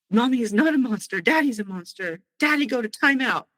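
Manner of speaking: a hint of a feisty two-year-old scolding; toddler voice. Two-year-old defending mommy to daddy, feisty little voice.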